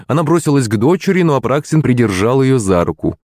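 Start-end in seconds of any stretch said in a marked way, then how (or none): none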